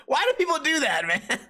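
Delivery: high-pitched, incredulous plea; real amused exasperation. Real, not acted. Podcaster baffled by repeated questions, amused exasperation. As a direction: voice rising up after laughing. Laughing exasperation after bit.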